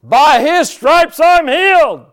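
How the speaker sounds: high, loud triumphant shout, drawn out. Retold or imitated. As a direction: shout it as the voice that has won. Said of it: "I heard this other voice say".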